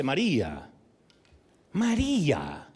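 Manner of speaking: gentle, lingering María; tender calling by name. Acted. Jesus calling Mary by her name, tender. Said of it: "la manera en que lo dijo".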